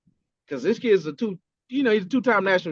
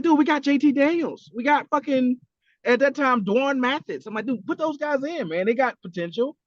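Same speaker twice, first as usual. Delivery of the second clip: high-pitched retold protest; complaining fan; 6 semitones higher than usual. Fan griping about who starts at quarterback, exasperated. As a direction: plead for the other players like an exasperated fan.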